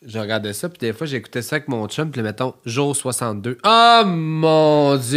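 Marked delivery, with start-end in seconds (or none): 3.6-5.2 amazed exclamation. Real, not acted. Exclaiming, stretched out.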